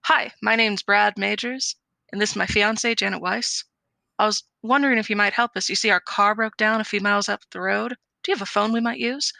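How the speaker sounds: brisk rehearsed delivery as Brad; fast, practised Brad impression; Brad's line, timed. Shown as a demonstration. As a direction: rattle off the intro like a polished rehearsal. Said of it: "really tried to get the timing down".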